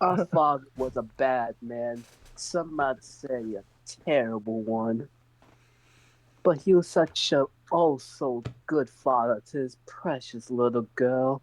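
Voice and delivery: put-on the daughter plays up her Southern accent about her daddy. Repeating her line for the table, now in a deliberate Southern accent. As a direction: lean into the Southern accent on purpose, a touch hammed-up. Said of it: "you slipped into a southern accent".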